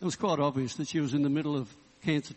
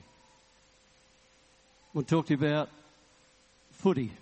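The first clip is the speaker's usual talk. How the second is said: slow, drawn-out tease; slow comic build-up; slower than usual. Retold or imitated. Preacher teasing the cancer patient, slow and drawn out. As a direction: stretch each word before the punchline. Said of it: "I want to talk to you about my children".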